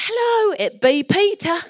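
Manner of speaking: high, loud Suffolk rustic call; comic Suffolk accent. Acted. Peter calls to Rhoda at the door, comic Suffolk accent. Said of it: "probably had a Suffolk accent".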